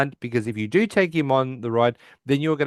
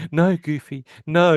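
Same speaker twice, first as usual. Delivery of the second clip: retold cry, rising louder at the end; mock shout; 4 semitones higher, 4 dB louder, slower than usual. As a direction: call out in protest, building to the last no. Sheldon cries out from his room.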